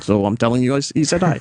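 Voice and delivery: a hint of a Jackie Mason delivery; understated Jackie Mason shtick; Jackie Mason impression. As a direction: lightly pass on the greeting like Jackie Mason would. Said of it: "I sound like Jackie Mason doing it".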